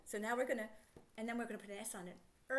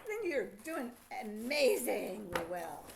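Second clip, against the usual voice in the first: slow warm praise; 4 semitones lower, 3 dB louder, slower than usual. Real, not acted. Praising child after correct answer.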